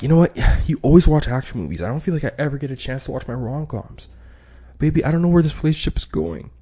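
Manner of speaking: high, plaintive complaining voice; upset partner. Acted. Partner airs grievances in an argument, high and plaintive.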